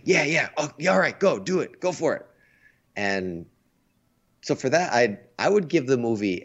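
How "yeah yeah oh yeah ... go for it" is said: high, eager mock cheer at the screen; egging the heroes on, pitched high; excited cheering. Acting out his own excited cheering.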